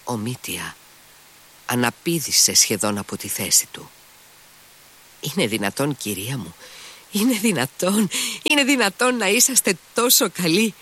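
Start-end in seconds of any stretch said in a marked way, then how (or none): 5.2-10.7 deeply moved cry. A narrator's reading. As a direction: pitch climbing much higher with each repeat, overwhelmed. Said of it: "φώναζε πολύ συγκινημένος". (συγκινημένη κραυγή που ανεβαίνει)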